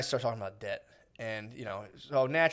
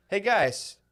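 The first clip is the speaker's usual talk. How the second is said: mock duke; 7 semitones higher, much slower than usual. Voicing the duke rallying peasants.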